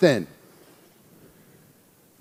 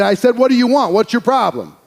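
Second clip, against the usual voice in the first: retold demand, higher and more forceful; teacher insisting, pitch raised on "I said"; insistent repeat; 3 semitones higher than usual. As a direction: press for an answer from a silent student. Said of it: "he didn't respond".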